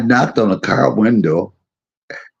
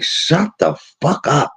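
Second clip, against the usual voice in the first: higher-pitched mock annoyance; exasperated retelling, pitched up; retold irritated outburst; 8 semitones higher than usual. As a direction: tell off a noisy cellmate, half in earnest. Retold telling cellmate to shut up.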